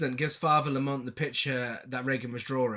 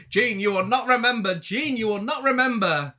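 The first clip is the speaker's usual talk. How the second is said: mock solemn priest; 6 semitones higher, 5 dB louder than usual. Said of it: "Father Lamont's like".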